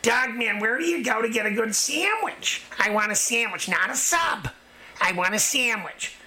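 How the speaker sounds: put-on half-hearted American accent he admits he can't nail; dog trainer half-imitating a Buffalo client's American accent; mock American accent. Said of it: "I really can't do it as good as she can".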